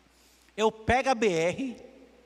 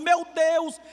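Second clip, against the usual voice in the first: retold tearful cry; 8 semitones higher, 5 dB louder than usual.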